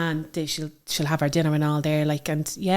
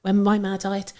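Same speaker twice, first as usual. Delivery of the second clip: whispered, emotional remembrance; hushed grief; 3 semitones higher than usual. Real, not acted. Daughter recalling her late mother's favourite colour, whispered. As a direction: whisper it as if it hurts to say.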